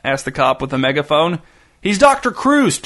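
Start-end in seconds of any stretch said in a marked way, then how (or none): 1.8-2.8 shouting the hostage's name across the lawn. A narrator's reading. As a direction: call it out to the cops, drawn out. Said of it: "shouted Ray".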